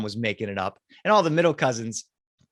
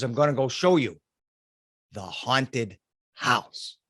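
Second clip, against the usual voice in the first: lower, slow eerie uncle voice; spooky uncle; 4 semitones lower, slower than usual. Retold or imitated. Uncle teasing kids about haunted house, eerie slow. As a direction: linger on haunted to give chills.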